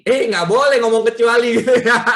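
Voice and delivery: loud mock self-scolding breaking into laughter; amused outburst with a laugh; joking self-correction. Real, not acted. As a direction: catch yourself loudly and laugh it off. Jokingly scolds himself, then laughs.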